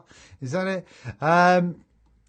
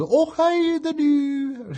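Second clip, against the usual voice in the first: high, hammed-up Scottish greeting; a brief jokey stab at a Scottish accent; mock Scottish accent; 11 semitones higher, 4 dB louder, much slower than usual. Greeting viewer Jim in a hammed-up Scottish accent. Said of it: "That's as Scottish as my accent is gonna take me".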